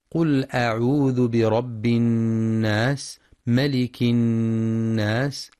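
slow chanted tajweed recitation; Quran recitation. Shown as a demonstration. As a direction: recite it slowly with measured tajweed. (تلاوة مجودة بطيئة)

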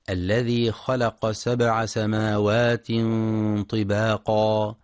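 slow, measured tajweed chant; Quran recitation. Acted.

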